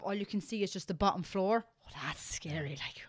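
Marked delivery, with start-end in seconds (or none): 1.9-3.0 hushed, breathy whisper of dread; scared whisper. Retold or imitated. Peering down a tall American stairwell, scared whisper.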